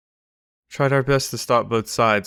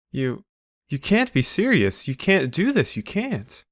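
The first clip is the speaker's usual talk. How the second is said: pitched-up disbelieving pleas; shocked protest; 4 semitones higher, slower than usual. Acted. Prince protests being arrested.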